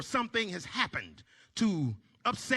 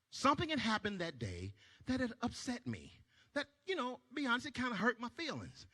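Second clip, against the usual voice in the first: hushed confiding; 9 dB quieter, faster than usual. Acted. Quietly explaining hurt.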